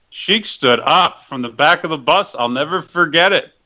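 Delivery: ordinary delivery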